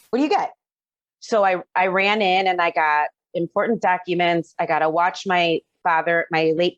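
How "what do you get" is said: repeated higher, frantic; the question jumps up in alarm; rising panic. Retold or imitated. Mother in burning house asks herself again, panicked. Panicking over five minutes inside.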